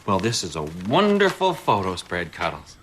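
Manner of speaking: dry mock praise; sarcastic. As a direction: say it as if you mean the opposite. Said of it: "I detect some sarcasm in your voice".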